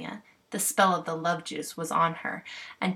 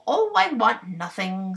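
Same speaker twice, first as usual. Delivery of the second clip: bossy clown voice; 2 semitones higher, 5 dB louder than usual. Acted. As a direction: boss the fairies like a proud clown.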